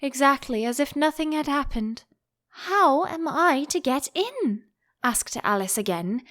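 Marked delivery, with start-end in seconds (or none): 2.5-4.6 louder. A narrator's reading. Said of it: "in a louder tone".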